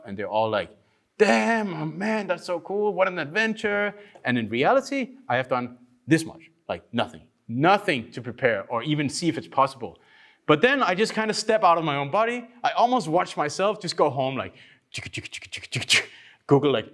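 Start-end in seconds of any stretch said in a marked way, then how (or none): 1.2-3.9 impressed gym crowd. Retold or imitated. 14.9-16.1 mock work noise. Imitating busy machine-like work.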